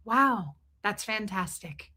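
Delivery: soft, flat-out unimpressed; deadpan sarcasm. Retold or imitated. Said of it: "she's like".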